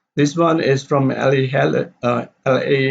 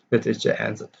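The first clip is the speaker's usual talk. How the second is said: "the teacher answered" softer, without stress; unstressed tag; 3 semitones lower, 5 dB quieter, faster than usual. Shown as a demonstration. Teacher showing the reporting clause, unstressed. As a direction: let "the teacher answered" fall away. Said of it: "The teacher answered is not stress".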